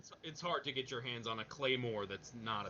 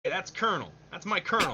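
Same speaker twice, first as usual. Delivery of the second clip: higher, louder, Australian-tinged Colonel; the Colonel accidentally in Australian; slipped Australian accent; 6 semitones higher, 7 dB louder, faster than usual. Acted. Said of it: "that's Australian again".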